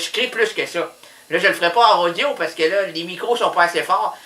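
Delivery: normal talking voice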